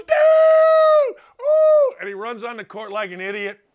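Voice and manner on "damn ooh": very high, loud hollered damn; excited fan yell. Retold or imitated. Imitating a courtside fan after a dunk, hollering. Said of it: "he goes".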